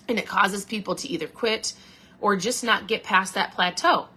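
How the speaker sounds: hiccuping mid-sentence; hiccups. Real, not acted. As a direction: talk through the hiccups. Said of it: "Excuse me, I got, like, weird hiccups".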